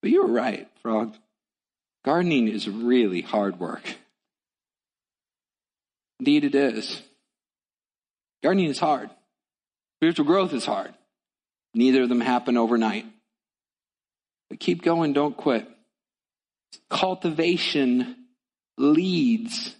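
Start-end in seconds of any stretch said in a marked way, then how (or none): 0.0-4.0 tired Toad. Acted. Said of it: "said Toad". 16.9-19.8 drawn out slowly, word by word; slow emphasis. Shown as a demonstration. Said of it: "say it again".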